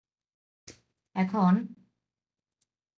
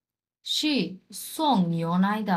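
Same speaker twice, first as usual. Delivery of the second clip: slow model reading; much slower than usual. Shown as a demonstration. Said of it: "দেখার পর কি বললাম".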